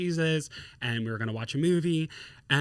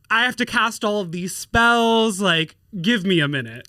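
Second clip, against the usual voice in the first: lightly voiced overwhelmed witch; 5 semitones higher, 4 dB louder than usual. Etsy witch to her many clients, mock exasperated. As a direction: beg for breathing room, hammed up a little. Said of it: "She's like".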